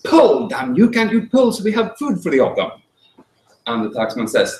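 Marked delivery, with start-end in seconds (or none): 0.0-2.8 a farmer yelling at his oxen, rising much higher; whip-cracking shout at the thin beasts; angry farmer. Acted. Farmer curses his weak oxen while plowing, angrily shouting. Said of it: "he plies the whip angrily and he says".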